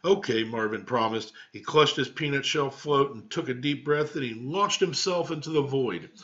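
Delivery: lively read-aloud storytelling; story narration. A narrator's reading. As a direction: read it to the class like a picture book.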